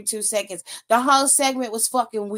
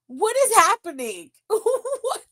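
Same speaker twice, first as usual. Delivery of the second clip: laughing disbelief; 9 semitones higher than usual. Real, not acted. Laughing at baffling segment.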